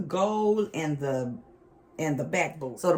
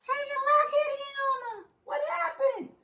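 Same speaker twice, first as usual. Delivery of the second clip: panicked scream. Retold or imitated. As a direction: shriek it out like you just saw blood. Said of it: "I scream".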